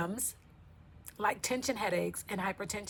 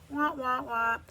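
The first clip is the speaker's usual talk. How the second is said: loud imitated wah-wah; wah-wah noise; 3 semitones higher, 6 dB louder, slower than usual. Host signs off the episode, mock wah-wah noise. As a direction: sound out a comic wah-wah, raised in volume.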